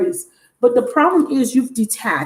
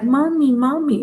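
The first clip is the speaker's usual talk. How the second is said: put-on grown man babyish; 4 semitones higher than usual. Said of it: "It was a grown-ass man".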